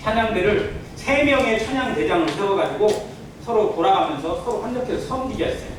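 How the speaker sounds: usual speaking voice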